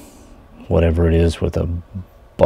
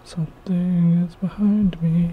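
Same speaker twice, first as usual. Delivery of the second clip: spooked; 11 semitones higher than usual. Real, not acted. Spooked by noise in studio.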